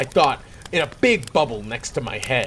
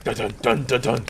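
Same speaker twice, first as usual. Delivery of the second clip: ominous music hum; 3 semitones lower than usual. Retold or imitated. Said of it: "the music was becoming".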